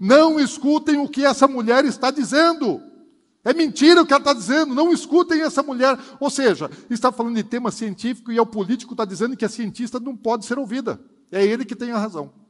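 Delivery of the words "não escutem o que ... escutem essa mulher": furious, high-pitched, loud screaming yell. Speaker recounting a politician at a hearing, retelling a yell. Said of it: "ele berrando, gritando assim".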